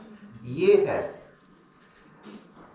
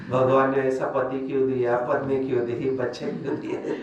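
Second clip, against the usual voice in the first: mock complaint to God; 8 semitones lower than usual. People blaming God for their lot.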